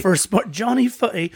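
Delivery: a hint of a mock accent on the nickname "Johnny Footy"; bad accent. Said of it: "if that was a bad accent, I apologize".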